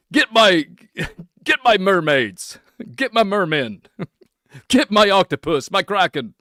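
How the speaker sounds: hammed-up Poseidon summons, giggling; mock sea-king orders. Mock sea-king commands, laughing.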